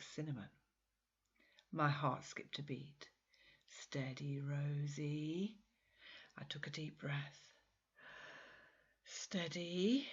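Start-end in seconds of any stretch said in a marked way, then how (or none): 3.8-5.6 whispered to herself, steadying; self-calming whisper. Acted. Rosie steadies herself as Miguel arrives, in a whisper. 9.0-10.1 whispered to herself, steadying; self-calming whisper. Acted. Rosie steadies herself as Miguel arrives, in a whisper.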